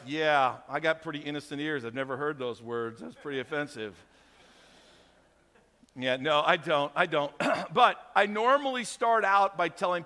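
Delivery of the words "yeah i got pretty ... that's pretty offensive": mock innocent. Pastor teasing a seatmate, mock offended and low. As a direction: play the shocked innocent, deadpan. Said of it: "And I always go like".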